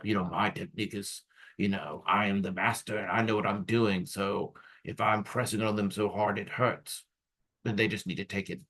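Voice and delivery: put-on a light Austrian accent, smug and self-assured; imitated Austrian accent. Mimicking the Austrian therapist dismissing patients' pain, light Austrian accent. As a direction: shrug it off in a mild Austrian accent like a know-it-all master. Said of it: "I'm using an accent like he had".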